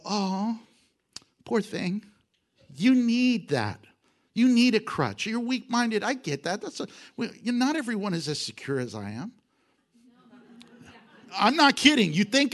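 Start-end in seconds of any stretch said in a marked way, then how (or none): 0.0-9.3 mocking pity, talking down; condescending atheist. Former atheist mocking believers, condescending. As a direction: pat them on the head with your words. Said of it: "I go".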